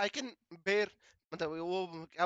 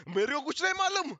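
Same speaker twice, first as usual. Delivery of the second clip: mimicking scared mother; 3 semitones higher, 3 dB louder than usual. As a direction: babble it out like a frightened mum. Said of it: "mummy डर के और कुछ भी बोल रहे".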